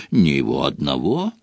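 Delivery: low, weary lament; mildly rueful, sinking voice; sorrowful sigh. A narrator's reading. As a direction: sigh it out gloomily. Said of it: "горестно вздохнул Фадж".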